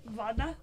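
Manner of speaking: "Vada" with a V and open "ah"; foreign pronunciation. Shown as a demonstration. Showing friends how Russians say it, "Vada" with a V. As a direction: say "Vada" with V in place of W. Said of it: "that's how they say it".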